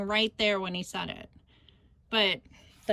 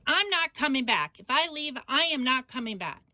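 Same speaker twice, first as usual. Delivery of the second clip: higher-pitched, mildly indignant imitation; acted-out ultimatum, pitched up; retold defiant refusal; 3 semitones higher than usual. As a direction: dig your heels in as the quarrelling son. Retold son's defiant threat in quarrel.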